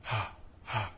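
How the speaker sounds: soft, airy ha with loose cords; breathy ha. Shown as a demonstration. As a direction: let the air spill through each ha. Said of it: "Go back and forth between these two sounds".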